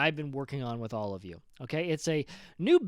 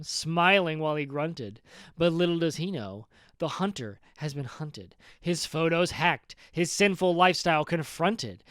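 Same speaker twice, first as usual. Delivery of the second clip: dramatic solemn poem recital; poetry reading. Acted. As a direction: recite it like a grand ballad. Reads his poem aloud.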